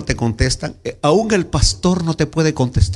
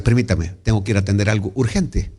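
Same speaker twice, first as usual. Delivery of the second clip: God speaking; 8 semitones lower, 3 dB quieter, faster than usual. Acted. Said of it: "voy a ser gráfico".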